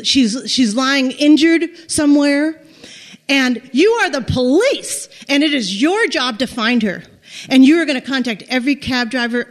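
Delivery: firm, emphatic demands, building in pitch; retold fury. Stranded tourist ordering the police to find her friend, acted fury. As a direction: lay down orders, leaning on key words. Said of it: "I am furious. And I say".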